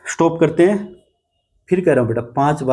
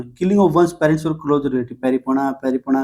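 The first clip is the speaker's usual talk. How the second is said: slow dictation; slower than usual. Shown as a demonstration. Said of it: "बस मेरी सुनो".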